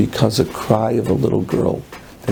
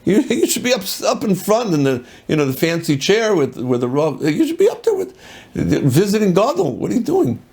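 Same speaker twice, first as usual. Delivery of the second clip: high-pitched, incredulous questioning; astonished disciple; 9 semitones higher than usual. Retold or imitated. Disciple finds his rebbe at the back of the shul, astonished. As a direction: protest as if shocked to find him there.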